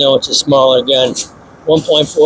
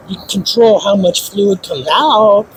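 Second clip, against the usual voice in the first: odd voice; 3 semitones higher than usual. Real, not acted. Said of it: "Why do I talk like that?".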